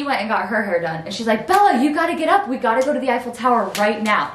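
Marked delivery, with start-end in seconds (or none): 1.5-4.3 mom waking her. Retold or imitated.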